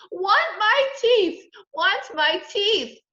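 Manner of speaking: put-on high, drawn-out childish scream; screaming toddler. A narrator's reading. Little brother demanding his teeth, screaming. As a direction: wail slowly and loudly like a tot. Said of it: "Fudge started to scream".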